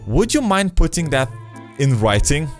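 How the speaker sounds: slightly teasing quest-giver voice; Etna's voice. Acted. NPC Etna greets player.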